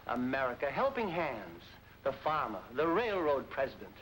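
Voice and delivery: patriotic club speech, low and grand; stirring speech. Acted. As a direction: orate like a proud club speaker. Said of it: "this is about Norma and Dick".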